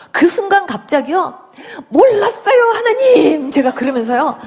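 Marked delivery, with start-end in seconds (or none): 1.9-3.5 higher, louder pleading cry to God; sudden higher tearful plea. Retold or imitated. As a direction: beg like a child caught out. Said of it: "하나님한테 막 이렇게 빌기 시작했어요".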